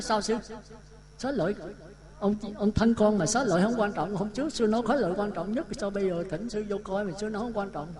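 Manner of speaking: a daughter retold as baffled, pushing back; puzzled surprise. Daughter puzzled as the monk dismisses relics, mild surprised protest. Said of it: "Cô thấy làm lạ".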